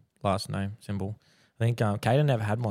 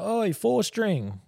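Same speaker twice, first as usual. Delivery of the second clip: high drawn-out pun; 11 semitones higher, much slower than usual. Retold or imitated. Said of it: "It was like".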